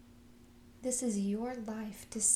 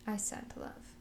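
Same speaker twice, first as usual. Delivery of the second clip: whispered affirmation; 5 dB quieter than usual. Shown as a demonstration. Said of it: "one last time".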